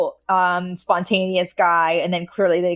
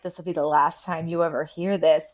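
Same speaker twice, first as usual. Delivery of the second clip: lower, mock-foreboding echo; ominous; 3 semitones lower, 4 dB quieter than usual. Co-host echoing the theme announcement, playfully ominous. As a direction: intone it like a mild warning.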